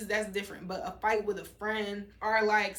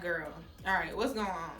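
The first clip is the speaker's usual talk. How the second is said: calm and collected; 3 semitones lower than usual. Retold or imitated. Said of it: "calm and just collected".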